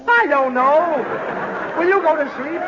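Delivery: fed up, pleading; exasperated. Acted. Daddy worn out by Snooks's questions, exasperated.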